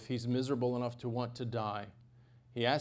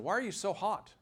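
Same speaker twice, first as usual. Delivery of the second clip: questioning tone; 8 semitones higher than usual. Shown as a demonstration. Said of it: "Do you see the double entendre there?".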